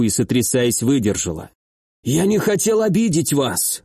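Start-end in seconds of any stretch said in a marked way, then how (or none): 2.0-3.8 higher, pleading hoarse voice; wheezy, high-pitched apology; whining plea. A narrator's reading. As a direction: plead like a tearful victim. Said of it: "В его голосе теперь звучали плаксивые нотки".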